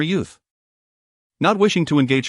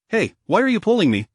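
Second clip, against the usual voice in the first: indignant; 6 semitones higher than usual. A narrator's reading. Granny Zhu snaps at husband.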